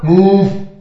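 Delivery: high, loud, curt order; mock-impatient shouted command; computer guy. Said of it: "I love the computer guy".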